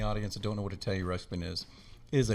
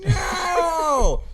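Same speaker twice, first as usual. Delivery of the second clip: long high-pitched imitated scream; 10 dB louder than usual. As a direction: scream it out like a terrified little sister. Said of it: "She's screaming".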